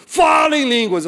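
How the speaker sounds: loud, high, imitated angry order; authoritarian prophetic command. Leader ordering the boy to speak in tongues, fierce prophetic tone. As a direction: burst out like a stern prophet commanding. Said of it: "usou um tom meio autoritário, sabe, meio profético, bravo".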